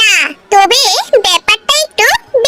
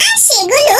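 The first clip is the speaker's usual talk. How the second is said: shouted, half-laughing indignant refusal; outraged shouting wife. Acted. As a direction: yell it back at him in disbelief, then a flat no. Wife outraged at cooking demand. (রাগে চিৎকার করে প্রত্যাখ্যান)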